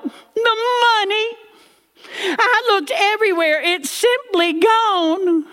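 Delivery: put-on high, slow distraught old lady; mock wailing granny. Grandmother wailing to her daughter about the money, high mock distress. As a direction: cry it out in hammed-up despair. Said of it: "Granny cried out".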